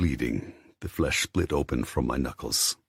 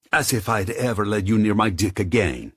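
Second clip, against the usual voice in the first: scornful; 7 semitones higher, 4 dB louder than usual. Acted. Scornful denial.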